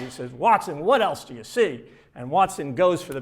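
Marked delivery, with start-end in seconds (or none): 0.3-1.8 mock exasperation, a bit louder; exasperated. Holmes fed up with Watson's answers, mock exasperated. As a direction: push the question out, fed up. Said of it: "Holmes is getting completely exasperated".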